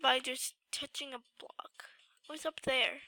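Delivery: whispered puzzlement. Real, not acted. Sick gamer whispering to himself. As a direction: whisper it as if not to be heard.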